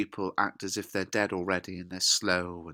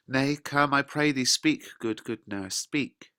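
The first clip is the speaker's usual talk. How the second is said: raised, emphatic urging with punched words; acted pleading; 5 semitones higher, 4 dB louder, slower than usual. Juliet begs the nurse to speak, acted pleading. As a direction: press the plea, loud on the first words.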